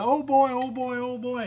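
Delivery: put-on high, bright, gleeful oh boys; happy sea creature. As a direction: squeal with delight like a happy monster. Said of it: "He's really happy".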